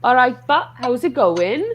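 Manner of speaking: a brief attempt at a Welsh accent, lightly done. Shown as a demonstration. Friends on a call egging her on, a shy Welsh accent. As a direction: slip into a mild Welsh lilt. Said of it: "Give us a bit of Welsh".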